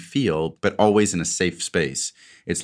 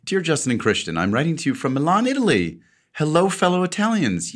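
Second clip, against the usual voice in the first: rising, louder mock Italian accent; 9 semitones higher, 3 dB louder than usual. Reading a fan letter from Milan, in a hammed-up Italian accent. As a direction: ham up a Luigi-style Italian accent. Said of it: "Luigi impression".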